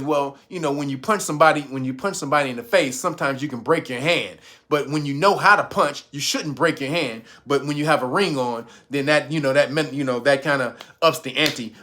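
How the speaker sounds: low, measured explanation; calm explainer. Retold or imitated. Mullen explaining why he took his ring off, low and calm. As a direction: explain it like a patient fighter. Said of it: "He says".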